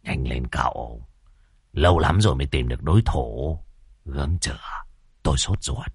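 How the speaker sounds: low, soft impatient grumble; a hint of a fretful old man pleading; impatient master urging the young man to hurry; grimacing impatience. A narrator's reading. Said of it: "nhìn cậu nhăn nhó".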